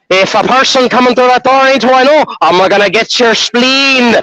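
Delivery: lightly voiced mock menace; threatening Irish cat. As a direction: play a scrappy little cat vowing attack. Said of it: "he's a mean little Irishman".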